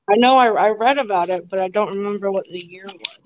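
talking around a spoon in the mouth. Real, not acted. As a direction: speak with a spoon in your mouth. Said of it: "Sorry, I have a spoon in my mouth".

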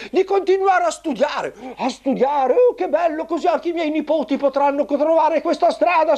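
high squeaky puppet lady; sweet puppet mother, pitched high; squeaky shrill puppet voice. Acted.

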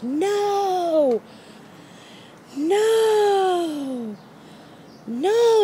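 high, loud mock scream of no; reliving the panic in a high, loud yell; retold screaming. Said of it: "I'm screaming. I'm like".

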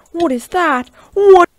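high, loud burst of disbelief; incredulous shouting. Real, not acted. Gamer protesting what just happened in the match, incredulous shout.

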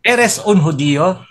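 "judío" slowly, stressed on the long í; Spanish drill. Shown as a demonstration. Drilling students in Spanish, judío stressed on the í. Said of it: "ginagamit ko sa estudyante".

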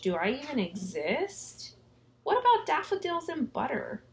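high, dismayed crayon voice; a worried little crayon. Acted. Crayons lament lost colors.

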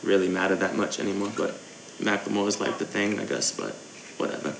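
low-key fake English accent; put-on English accent. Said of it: "gaming in an English accent".

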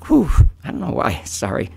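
trying to push through tears and apologise; choked up. Real, not acted. Speaker apologising to the commissioners, choked up and tearful. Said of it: "I'm sorry about that".

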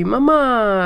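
light Italian lilt on mamá, as her son says it; Italian accent. Retold or imitated. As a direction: imitate the son's new Italian accent on mamá. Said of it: "regresó hoy hablándome con acento italiano".

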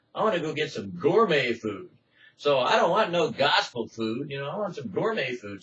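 mock the one who'd rather eat out; mocking lazy believer. Preacher mocking a listener who prefers gourmet food, lightly voiced. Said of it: "You might say".

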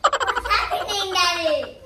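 laughing. Real, not acted. Child laughing at the game.

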